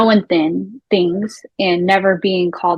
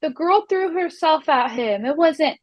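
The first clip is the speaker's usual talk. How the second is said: mock panicked; 3 semitones higher, 4 dB quieter than usual. Jennifer panicking, imitated by host.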